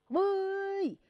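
calling out. Acted. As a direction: hail the crowd at dusk before the gate shuts. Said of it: "站在那儿紧喊".

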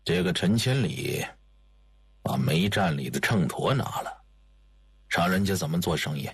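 put-on low, dry older man's voice. A narrator's reading. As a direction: drop low and wry. Old spymaster character voice.

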